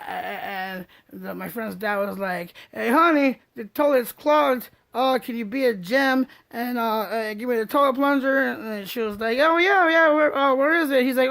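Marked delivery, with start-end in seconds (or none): 2.7-8.4 friend's dad asking sweetly. Retold or imitated. 9.4-11.0 friend's mom, eager. Retold or imitated.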